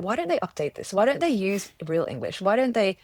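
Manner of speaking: hammed-up grumbling; mock moaning. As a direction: moan it like a fed-up reader. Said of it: "I have bitched and moaned about it".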